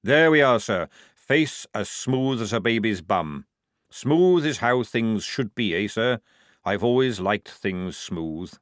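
slow, relishing sergeant voice; sergeant character. Acted. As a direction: savour each phrase slowly, like an old soldier.

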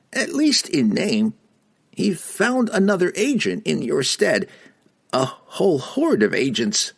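very high squeaky reply; halfling voice. Acted. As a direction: chirp it out high. Don Don speaking.

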